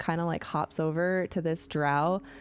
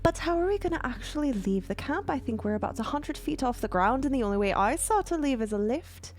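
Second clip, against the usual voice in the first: higher, prim dwarf voice; Eldeth voice; 5 semitones higher than usual. Acted. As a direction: speak up primly, a touch higher. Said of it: "You hear Eldeth".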